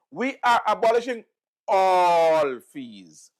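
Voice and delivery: mock-proud announcement with "all" stretched long; proud proclamation. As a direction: parody a bold party promise. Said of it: "proudly and boldly proclaimed".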